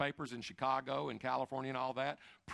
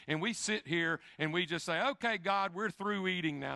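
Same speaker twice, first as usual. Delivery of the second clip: sarcastic; 3 semitones higher, 4 dB louder than usual. Retold or imitated. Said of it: "And I'm being sarcastic".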